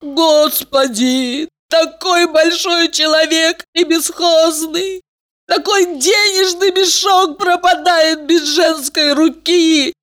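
slow, high wailing lament; mock lament. A narrator's reading. Elizaveta wails over the rich man left without a woman. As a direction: bewail it theatrically. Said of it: "начала убиваться".

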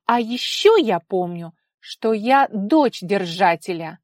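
loud, slow pointed retort; defiant insistence. A narrator's reading. Daughter insisting on her rank, slow and loud. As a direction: lean on every word.

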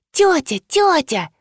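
high, slow little voice; urgent stage-whispered girl's call; шепчущий голосок. A narrator's reading. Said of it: "зашептал голосок". (тонким голоском, громким шёпотом)

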